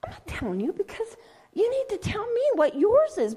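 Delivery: whispered private thought; inner-voice whisper. Retold or imitated. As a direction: whisper it as if thinking to yourself. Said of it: "'cause I'm thinking inside".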